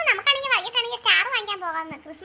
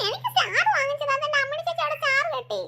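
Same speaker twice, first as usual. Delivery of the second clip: mild put-on crying; sulky child whining through pretend tears; tearful whining; 3 semitones higher than usual. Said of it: "വെറുതെ കരയുന്നത്". (കരച്ചിലോടെ ചിണുങ്ങുന്നു)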